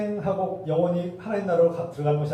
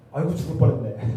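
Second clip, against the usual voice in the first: mock relieved exclamation, louder; hammed-up 아이고 of relief; relieved sigh; 5 dB louder than usual. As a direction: act out a close call with a loud aigo. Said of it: "뭐 이런 거 하잖아요".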